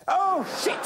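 loud, high yelp of dismay; horrified exclamation. A narrator's reading. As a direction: burst out in sudden panic. Character discovers the tickets are lost.

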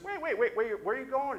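high, loud, urgent wait wait; urgent calling out. Retold or imitated. Pastor calling after Maria, high and loud. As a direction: call her back before she leaves.

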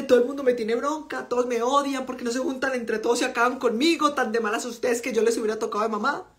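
a light touch of a self-pitying sufferer; lightly voiced complaining mother; martyr voice. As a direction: whine mildly, as if everyone is against you. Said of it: "la sufriente".

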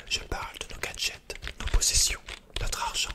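rising anger against society, hissed hard; bitter rant. Acted. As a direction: spit out the contempt in a forceful whisper.

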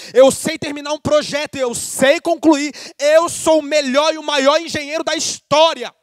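emphatic preaching, building in conviction; pregação fervorosa. Real, not acted. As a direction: declare it boldly to the whole church. Preaches as Jesus speaking, full force. (pregação com autoridade)

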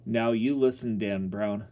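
rough, commanding call to listen; a father firmly scolding a drunk neighbour; rough and stern. Acted. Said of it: "my pop said roughly".

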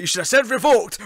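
mock outrage. Fan yelling at the TV that the line should be revoked, loud. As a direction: yell at the screen in comic outrage. Ranting at the screen.

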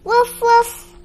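high little yaps; puppy barks. Acted. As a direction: bark like a proud puppy.

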